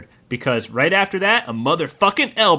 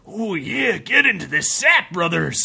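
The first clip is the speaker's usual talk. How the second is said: macho yell; 3 semitones higher than usual. Acted. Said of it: "yelled Donarok".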